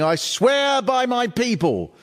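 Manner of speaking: a hint of a fierce Paisley woman; fierce local woman.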